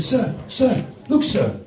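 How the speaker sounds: a touch of a tattling schoolboy; mock urgent pupil calling the teacher; lightly voiced schoolkids. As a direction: tell on a classmate, pitch jumping about. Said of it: "the other kids went".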